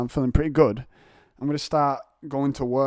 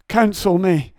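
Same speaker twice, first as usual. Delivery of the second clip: mock plea; 8 semitones higher, 7 dB louder, slower than usual. Retold plea to counselling service.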